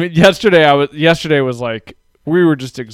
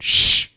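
mock shush. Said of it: "she just looked at me and went".

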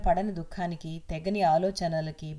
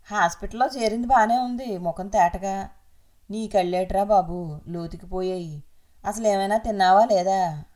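a lightly voiced, louder fussing woman; a hint of a nosy relative fussing over the patient; 4 dB louder than usual. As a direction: cluck over him like a worried relative.

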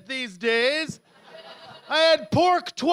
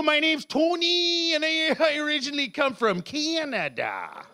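mock Canadian accent; 3 semitones higher than usual. Comedian introducing himself to newcomers, mangled Canadian accent. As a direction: overdo your Canadian accent. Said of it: "I don't even know how I used to speak".

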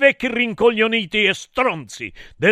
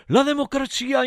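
high, thin mock crowd chant; shouted in chorus; 7 semitones higher, 3 dB quieter than usual. A narrator's reading. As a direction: imitate a crowd crying it in turn. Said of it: "e tutti gridarono".

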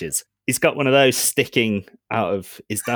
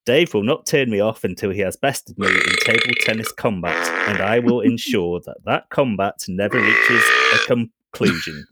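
smug computer voice; robot voice. Acted. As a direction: gloat like a ship AI. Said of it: "My robot voice?".

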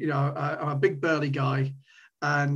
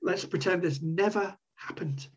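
babbling apology; 5 semitones higher than usual. Retold or imitated. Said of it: "so I started babbling".

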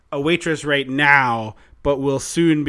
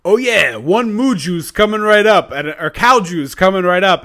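hammed-up jolly diner owner, higher and louder; 4 semitones higher, 7 dB louder than usual. Diner owner cheerfully offering milk to the guest. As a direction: lightly play the cheery owner serving moo juice. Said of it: "the diner owner is like".

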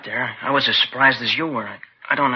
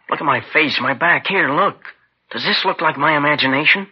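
raised, insistent voice pleading to be believed; indignant protest; 3 semitones higher than usual. Acted. Suspect showing his wounds to detectives, indignant and raised. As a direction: push back hard, offended at being doubted.

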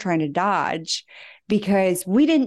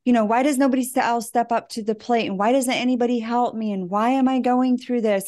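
mock whiny complaining; 3 semitones higher, faster than usual. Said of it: "and I'm like".

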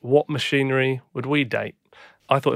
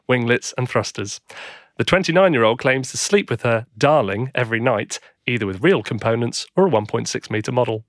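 lightly voiced newsreader; news read; 4 dB louder than usual. Reads a news item.

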